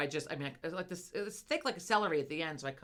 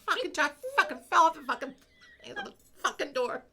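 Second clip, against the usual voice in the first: retold rant; 7 semitones higher than usual. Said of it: "I'm like".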